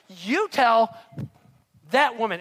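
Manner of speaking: loud, forceful order. Acted. Martha bursting in on Jesus, loud and demanding. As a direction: bark it at him. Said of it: "She, like".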